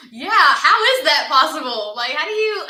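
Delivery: high, loud mock disbelief through laughter; incredulous people, laughing. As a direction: laugh while imitating the doubters. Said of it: "people were like".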